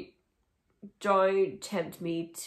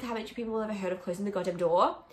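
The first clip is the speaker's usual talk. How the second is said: quoted lyric line; faster than usual. Retold or imitated. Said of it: "I chimed in with".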